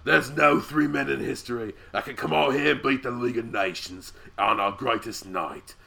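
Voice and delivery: fuller redo of the heel promo voice, lightly done; Barrett impression. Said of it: "That's so perfect".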